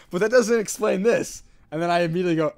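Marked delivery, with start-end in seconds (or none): 0.1-1.4 higher, slower, louder protest; indignant objection. Retold or imitated. Guy in the frat house objecting, louder and higher. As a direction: push back, slow and loud. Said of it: "And he goes".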